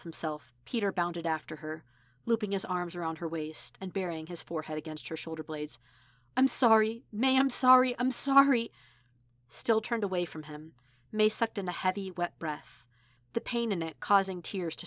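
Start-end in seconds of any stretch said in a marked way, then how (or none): 6.4-8.7 pleading apology. Acted. Peter clings apologizing after fight.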